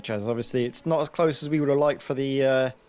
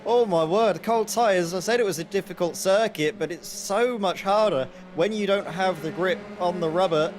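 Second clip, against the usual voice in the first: excited; 5 semitones higher, 3 dB louder than usual. Real, not acted. Reacting live to a crash.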